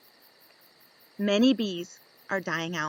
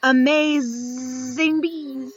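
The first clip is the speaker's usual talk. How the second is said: drawn-out wow; 4 semitones higher, 4 dB louder, much slower than usual. Acted. Book title read dramatically.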